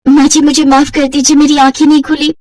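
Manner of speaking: lightly voiced bride, apologetic; young bride voice.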